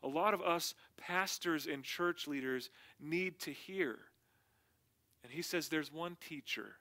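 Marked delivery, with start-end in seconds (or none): 0.0-4.0 "us" set out with emphasis, then a brief break; stress on "us". Real, not acted. Pastor counts himself among those needing to hear, stress on "us". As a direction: lean on the word "us". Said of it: "put an emphasis on the word us".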